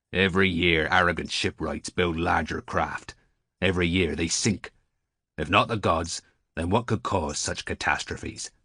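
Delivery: lightly voiced weathered seaman, insistent; a hint of an old salt lecturing; old sailor. Old sailor lecturing Gershom about shipwrecks, mildly insistent.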